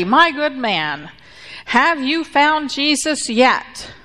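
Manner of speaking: mildly harsh, slow, drawn-out question; harsh preacher. Acted. Testy preacher to the drunk he dunked, rather harshly. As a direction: press each word like a preacher getting testy. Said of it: "says rather harshly".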